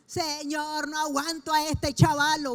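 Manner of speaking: queja exasperada y más fuerte; exasperated complaint. Pretend. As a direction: harta del niño, desahogándose en voz alta. Mock complaint about a child. (madre quejándose al Señor de su hijo, exasperada)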